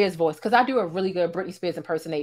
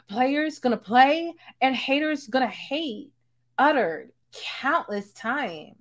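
a light, slow mock pop-star statement; white girl voice; 3 semitones higher, much slower than usual. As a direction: read it like a prim, careful public apology. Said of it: "How was my white girl voice".

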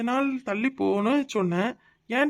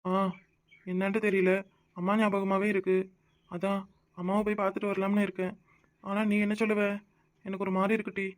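sad; 5 dB quieter than usual. Acted. Husband missing his mother.

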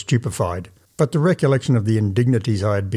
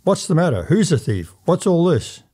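higher, alarmed calls; shouting out; 7 semitones higher than usual. A narrator's reading. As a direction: call out in confusion. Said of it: "added to the confusion by shouting out".

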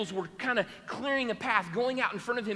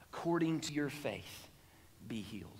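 soft blessing; 7 semitones lower, 7 dB quieter than usual. Acted. Jesus heals the blind man.

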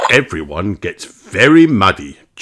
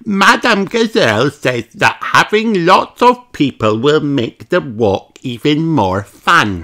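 put-on much higher, louder little girl voice; a bright piglet explaining; Peppa's voice; 7 semitones higher, 4 dB louder than usual. Peppa explaining the walk to Granny, high and chirpy. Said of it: "says Peppa".

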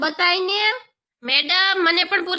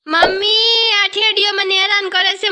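sing-song whine; 3 semitones higher, 4 dB louder than usual. Acted. Kid whines calling for mother.

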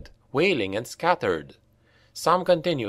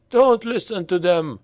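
high, louder warning; urgent slave; 7 semitones higher, 3 dB louder than usual. A narrator's reading. Slave urging the others away, high and urgent. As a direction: turn the others against them. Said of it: "said the slave who had first spoken".

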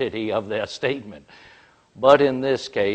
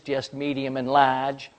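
mocking repeat; 2 semitones higher than usual. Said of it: "starts to unload".

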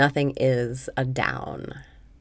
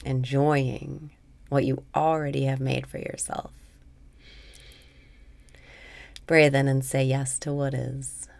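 guided meditation. Acted. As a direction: guide the listener gently into letting go. Leads a meditation.

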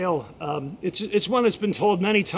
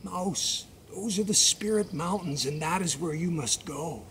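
lowered, softer guiding voice; solemn frog counsel; 4 semitones lower, 3 dB quieter than usual. Acted. Magic frog sending mouse to the Spirit Mountains, solemn counsel. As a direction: instruct gravely, pitched a little down. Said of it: "And, and he said".

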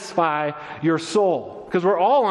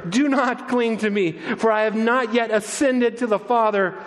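lifted, higher voice with a touch of joy; smiling joy; 6 semitones higher than usual. Retold or imitated. Risen Jesus to the woman hugging him, mildly joyful. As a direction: tell them kindly through a smile. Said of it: "with a smile on his face and joy in his voice".

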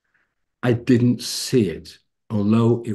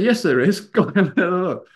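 insistent wife; 7 semitones higher than usual. Retold or imitated.

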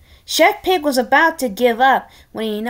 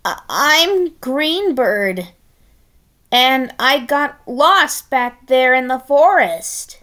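higher, halting nervous voice; nervous stammer; 3 semitones higher, 3 dB louder than usual. Acted. Disguised pig introducing himself, nervous stammer. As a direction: stammer the cover story.

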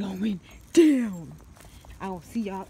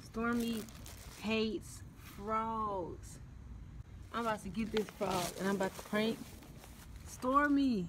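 whispering the prank plan; hushed so she can't hear; 6 semitones lower, 18 dB quieter than usual. Real, not acted. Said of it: "hushed prank setup to camera".

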